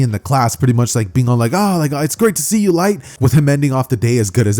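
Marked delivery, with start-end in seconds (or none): 1.5-3.0 higher-pitched, pleased voice; friendly welcome. Acted. Classmates glad to see Light, friendly.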